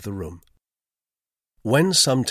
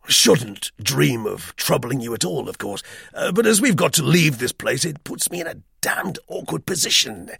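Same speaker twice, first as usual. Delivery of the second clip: a lightly voiced awkward officer; hint of a flustered gentleman; embarrassed British Major; 5 semitones higher, 3 dB louder than usual.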